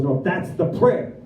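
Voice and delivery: slow, matter-of-fact correction; sponsor's firm answer. Retold or imitated. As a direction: imitate a mentor slowly insisting. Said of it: "He goes".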